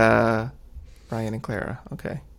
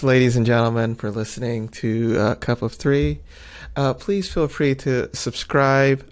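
bright, overly polite host sign-off; customer service voice. Acted. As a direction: put on a polished helpline voice. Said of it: "You got your customer service voice on".

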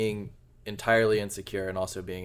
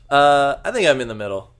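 shouting over fire alarm; 6 semitones higher, 12 dB louder than usual. Real, not acted.

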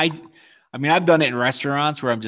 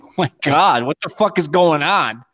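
higher, mildly exasperated disbelief; retold shock; 4 semitones higher, 3 dB louder than usual. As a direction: act out being lightly stunned. Retelling shock at waitress's insult.

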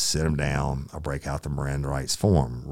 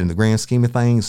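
higher, much louder angry shout; 9 semitones higher, 10 dB louder than usual. Retold or imitated. Officer scolding the suspect, angry shout. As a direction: hammer the point home.

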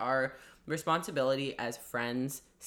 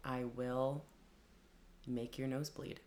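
barbarian; 11 dB quieter than usual. Pretend. Mock barbarian threat.

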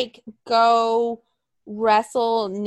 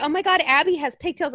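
mock fan gush; 5 semitones higher than usual. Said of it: "somebody was like".

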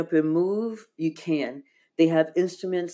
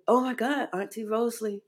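amazed greeting; 6 semitones higher than usual. Retold or imitated. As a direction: greet a loved one in hushed, high surprise. Retold delighted greeting to aunt's spirit.

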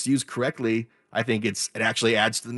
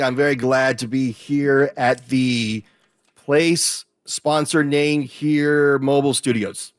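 hammed-up slow plug voice; mock sponsor read; 3 semitones higher, 4 dB louder, slower than usual. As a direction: read it like a deadpan placeholder ad, slow.

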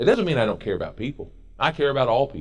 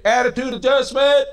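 higher, louder sharp call; mother's call; 13 semitones higher, 7 dB louder than usual. Retold or imitated. Mother correcting youth with a sharp higher, louder call. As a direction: bark it out like a mom correcting kids. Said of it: "used to say".

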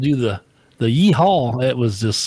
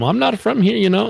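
higher-pitched mock Asian accent; imitated Asian accent; 9 semitones higher than usual. Agent explaining where he's from, imitated Asian accent. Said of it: "his accent was so thick".

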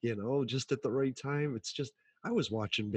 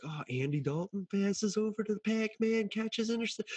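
higher, mock announcer call; mock play-by-play; 10 semitones higher than usual. Mocking the drunk Bengals fan with a fake play-by-play. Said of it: "I'm calling".

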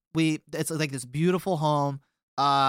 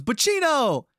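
put-on high, loud drunken teasing; drunk taunting call; 13 semitones higher, 5 dB louder than usual. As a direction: sing it at him like a wasted guy who won't quit. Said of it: "He goes".

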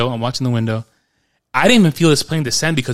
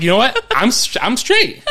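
excited relief; 9 semitones higher, 6 dB louder than usual. Retold or imitated. Relieved near home.

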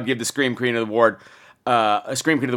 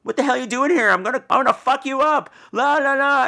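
aggressive stranger; 11 semitones higher than usual. Retold or imitated. Imitating the man who grabbed her, high mock yell. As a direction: bark it like a threatening stranger. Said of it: "screaming about".

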